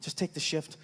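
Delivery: soft, low wheedling plea; pleading. Retold or imitated. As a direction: beg sweetly for a favor. Comic retells his own pleading.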